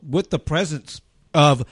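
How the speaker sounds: talking through a mouthful; chewing while announcing; mouth full. Real, not acted. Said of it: "I'm talking with my mouth full".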